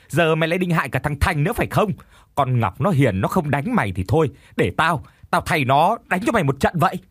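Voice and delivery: shrill furious scolding, pitch climbing. Acted. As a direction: berate her with contempt. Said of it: "Cô chửi rủa tôi thậm tệ".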